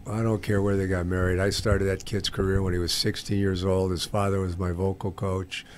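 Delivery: low, subdued and very soft; quietly stunned, voice dropped down; devastated. Real, not acted. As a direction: sink into hurt disbelief, hushed. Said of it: "I'm just devastated by what you just told me".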